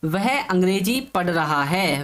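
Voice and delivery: slow, each word set out for students; teacher reads the example sentence out slowly to the class; slow dictation. Shown as a demonstration. Slow dictation. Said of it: "तो वाक्य है".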